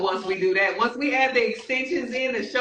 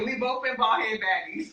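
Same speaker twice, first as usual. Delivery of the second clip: laughing boast; 3 semitones higher than usual. Real, not acted. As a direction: shout it proudly through laughter.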